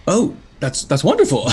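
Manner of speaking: overwhelmed delight. Acted. Imp professor overjoyed at his first sale, gushing. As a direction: burst with giddy surprise. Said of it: "the surprise begins to overwhelm him".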